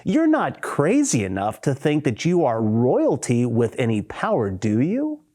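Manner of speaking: mildly mocking disbelief; lightly scornful, rising on the closing question; sarcastic. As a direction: put a touch of sarcasm on it. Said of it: "He was sarcastic".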